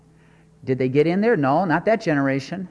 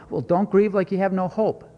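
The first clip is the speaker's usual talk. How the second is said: usual speaking voice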